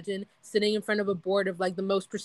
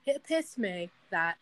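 slow, softer put-on British accent; 6 dB quieter, slower than usual. Imagining Freud addressing scientists, mock British accent. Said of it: "I'm gonna give a British accent".

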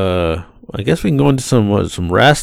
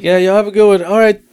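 a light African accent, higher, mimicking the rider; 7 semitones higher than usual. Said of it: "I did mimic him".

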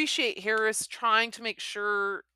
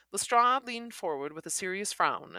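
plain reading voice

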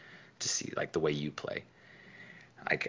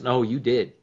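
mock loud retort; 5 semitones higher, 11 dB louder than usual. Steve teasing Deuce's loud answer.

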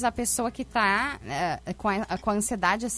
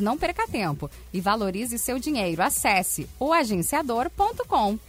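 hard sell ad. Acted. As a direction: hype the summer event on air. Event promo read.

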